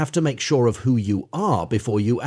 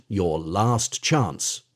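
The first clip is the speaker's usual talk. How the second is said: lower, slow menacing crocodile; slow warning; 4 semitones lower, much slower than usual. Acted. Crocodile warns the boy, slow mild menace. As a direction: lean on each word as a warning.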